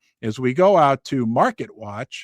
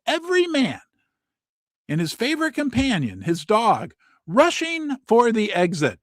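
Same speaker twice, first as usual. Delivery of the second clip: mock dramatic quote; 5 semitones higher than usual. Quoting headline phrase.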